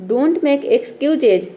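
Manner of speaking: "don't make excuses" said very slowly, each word apart; slow example sentence. Shown as a demonstration. Teacher modelling the reply to a friend's excuse, slowly. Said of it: "आप क्या बोलोगे".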